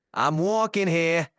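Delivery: a hammed-up Boston "I'm walking here", leaning on "walking"; Boston accent. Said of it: "wicked good Boston accent".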